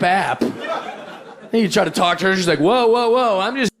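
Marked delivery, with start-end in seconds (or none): 2.6-3.7 high, slow mock woman backing off; mock woman's voice. Comedian playing the woman on the dating app, mock high voice. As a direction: draw out the whoa, then slow down.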